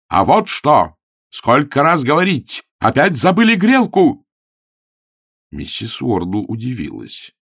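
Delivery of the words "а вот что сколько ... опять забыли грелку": loud, rising to a high furious yell; angry shouting. Acted. Augustine scolds the landlady about the forgotten hot-water bottle, shouting. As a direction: tell her off at full volume.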